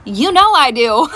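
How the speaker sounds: slow line breaking into a high laugh; gleeful laughing. Retold or imitated. Mother agreeing to a girls' day, gleeful laughing. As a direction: draw it out, then burst into cackles.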